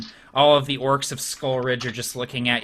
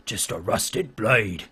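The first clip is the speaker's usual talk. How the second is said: low, slow orc muttering from the back; slow, lowered voice of a mocking orc; scoffing orc; 4 semitones lower, 3 dB quieter, slower than usual. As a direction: sneer it as a doubting orc onlooker. Orcs jeering behind the chieftain.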